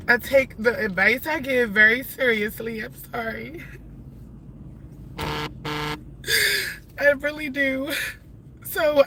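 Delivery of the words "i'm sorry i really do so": holding back tears. Real, not acted. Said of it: "I don't mean to cry".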